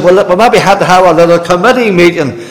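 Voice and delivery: lightly voiced fussy neighbour; hammed-up mock fuss; mock committee voice. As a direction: neighbour planning a committee, mildly mocking. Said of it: "He says".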